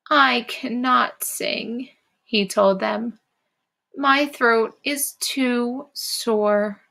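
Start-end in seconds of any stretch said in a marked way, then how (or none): 0.1-1.9 sad Frog voice. Shown as a demonstration. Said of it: "change our voice to sound like Frog". 4.0-6.8 sad Frog voice. Shown as a demonstration. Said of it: "change our voice to sound like Frog".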